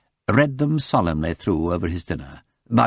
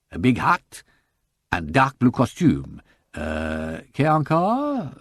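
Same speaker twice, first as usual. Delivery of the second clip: put-on eager French shop girl; slower than usual. Shop girl recognizing the photo for the detective, eager French accent. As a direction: pipe up brightly, sure of herself, French accent.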